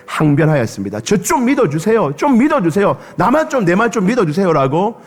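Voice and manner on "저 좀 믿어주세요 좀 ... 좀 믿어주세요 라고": higher, begging mock plea; pleading cry. Peter begging Jesus to trust him, mild mock plea. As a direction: beg him to believe you. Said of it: "예수님 앞에 외쳤던 거예요".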